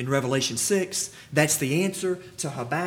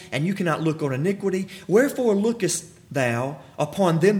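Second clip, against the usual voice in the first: scripture reading. Acted. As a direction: proclaim the verses to the congregation. Reads scripture at full force.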